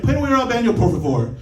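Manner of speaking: imitated woman firing off quick Spanish. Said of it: "talking to me very quickly".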